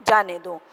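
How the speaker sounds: separate, falling जाने दो after a pause; जाने दो set apart. Shown as a demonstration. Teacher finishing the second sentence, जाने दो set apart. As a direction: let जाने दो stand alone, dropping on दो. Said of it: "फिर कॉमा".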